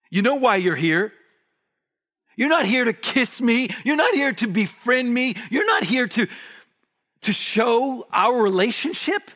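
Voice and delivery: Jesus rebuking his betrayer with mounting force; Jesus rebuking Judas. Acted. Jesus calls out Judas, rising to a shout. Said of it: "It's as though Jesus says".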